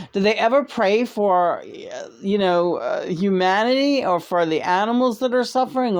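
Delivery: exasperated rant in Lena's voice; Lena impression. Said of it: "that was my Lena impression".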